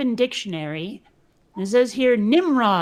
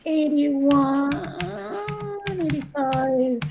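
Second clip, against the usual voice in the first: attempted Cockney; 4 semitones higher, much slower than usual. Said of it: "let's see if I can even manage this".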